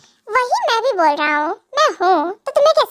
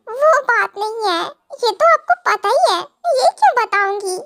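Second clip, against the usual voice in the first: laughing. Real, not acted. Wife laughs off guess.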